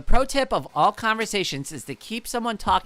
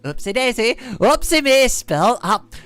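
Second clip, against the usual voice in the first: cheery klutz act. Pretend. Brushing off a spill on live stream, playful klutz. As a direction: laugh off the spill as a ditzy klutz. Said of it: "Just be like".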